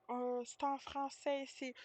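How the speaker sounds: imitated lady. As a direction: lightly mimic her insisting on French. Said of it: "And she was like".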